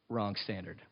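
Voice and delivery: a low hushed verdict; quiet deadpan correction. Retold or imitated. Preacher voicing Jesus correcting the Pharisees, hushed and final. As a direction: drop the voice right down, flat and final. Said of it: "Jesus is like".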